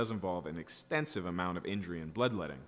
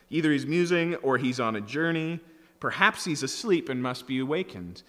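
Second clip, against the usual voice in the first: louder, slightly raised jeering read; mocking taunt; 4 semitones higher, 5 dB louder than usual. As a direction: keep taunting the false god. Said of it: "Elijah mocked them".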